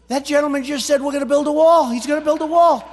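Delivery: loud retold quote. Wife quoting him, loud.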